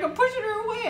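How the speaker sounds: high, laughing retelling; laughing self-quote. Retold or imitated. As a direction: say it through a laugh. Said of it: "I'm like".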